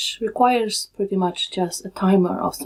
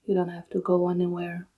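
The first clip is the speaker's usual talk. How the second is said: calm, unhurried meditation guide with long pauses; soothing, even delivery in short, spaced-out phrases; guided meditation; 3 dB quieter than usual. Real, not acted. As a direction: guide them gently into stillness, leaving long silences.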